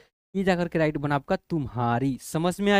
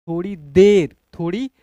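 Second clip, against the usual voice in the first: loud demo; 7 dB louder than usual. Shown as a demonstration. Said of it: "ऐसे पढ़ लेंगे".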